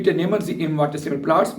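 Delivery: slowed-down German phrase for learners; slow dictation. Shown as a demonstration. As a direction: say it slowly and clearly. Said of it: "तो कहता है जी".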